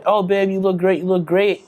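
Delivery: lightly voiced gushing girlfriend; mock flattering partner. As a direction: gush fake praise like a doting partner. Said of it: "significant others say".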